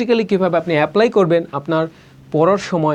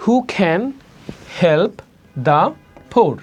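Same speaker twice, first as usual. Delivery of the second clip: "Who can help the poor" in separated words, "can" and "poor" aspirated; pushed CAN and POOR; much slower than usual. Shown as a demonstration. Teacher drilling the question for learners, stressed "can" and "poor". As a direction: puff into "can" and "poor", pausing between words. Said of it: "বিশেষ করে ধাক্কা হবে".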